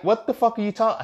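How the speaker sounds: retold disbelief, pitch leaping high; incredulous outburst. Reacting to classmate's excuse, high incredulous outburst.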